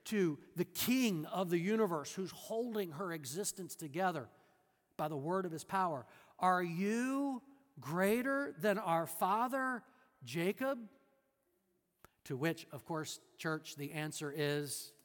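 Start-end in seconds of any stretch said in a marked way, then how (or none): 6.4-10.8 slow, mocking question; sarcastic challenge. The woman challenges Jesus about Jacob, sarcastic. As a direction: drag it out to belittle him. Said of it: "she's very sarcastic here".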